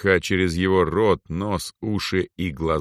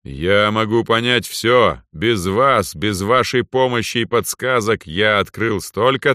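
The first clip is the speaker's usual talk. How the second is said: louder, imperious ruler's voice; proud overlord speaking down; arrogant lord; 2 semitones higher, 4 dB louder than usual. Acted. Lord boasts.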